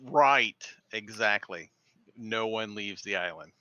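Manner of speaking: dry sarcastic agreement. Acted. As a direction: agree with pointed, mock sincerity. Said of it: "I was just being sarcastic".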